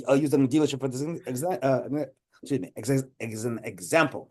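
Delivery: talking with mouth held open; mouth propped open. Real, not acted. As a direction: stumble through with the jaw hanging open. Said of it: "I'm trying to speak with my mouth open".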